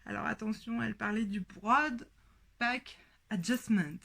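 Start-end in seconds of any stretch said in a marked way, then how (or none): 1.4-4.0 a mock English accent on "broad back adjustment", said lightly and self-mockingly. Shown as a demonstration. French sewer quoting an English podcast term in a mock English accent. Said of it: "avec mon super accent".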